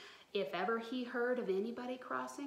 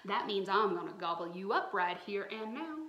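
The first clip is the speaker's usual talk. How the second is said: loud gloating monster threat; menacing monster; 3 semitones lower, 6 dB louder than usual. Acted. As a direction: growl it out like a hungry beast. Monster threatens to eat her.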